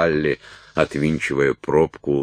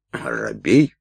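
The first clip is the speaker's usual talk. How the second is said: lightly puzzled echo, РОБЕЙ swinging up into a question; 3 semitones lower than usual. A narrator's reading. Уилт queries Салли's coaxing, puzzled rising echo. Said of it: "переспросил Уилт".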